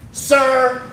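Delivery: high, slow mock scolding from a flight attendant, laughing through it; snapping flight attendant. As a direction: imitate a stern attendant, giggling. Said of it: "the flight attendant snapped at me".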